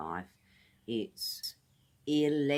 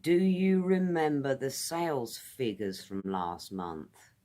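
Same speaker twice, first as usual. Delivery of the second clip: louder asking voice of a coworker; asking colleague; 3 semitones higher, 4 dB louder than usual. Shown as a demonstration. Colleague asking about last month's sales, louder. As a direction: ask it brightly, as a colleague would. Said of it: "now another example".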